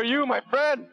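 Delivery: sudden falsetto squeal; squeaky high exclamation. Acted. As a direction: jump way up high on my friend. Playful shout while blocking a skill.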